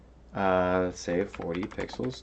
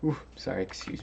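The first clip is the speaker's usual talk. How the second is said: mid-yawn, words stretched open; faster than usual. Real, not acted. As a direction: talk through a yawn. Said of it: "Yawning again".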